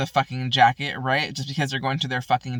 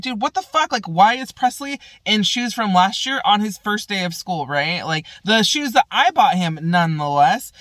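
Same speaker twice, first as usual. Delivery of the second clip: retold angry text; 4 semitones higher, 4 dB louder than usual. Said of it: "I'm like".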